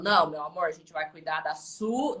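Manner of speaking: softly settling a worry; gentle reassurance. Retold or imitated. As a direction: reassure tenderly, voice dropped. Clinician reassuring the patient.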